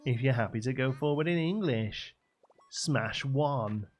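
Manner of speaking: mock chirpy phone-menu voice; trendy automated presenter. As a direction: read menu options like a hip London presenter. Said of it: "because it's like".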